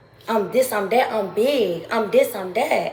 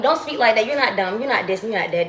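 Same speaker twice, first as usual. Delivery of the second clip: scolding a friend; 2 semitones higher, 5 dB louder, faster than usual. Retold or imitated. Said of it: "I be telling people".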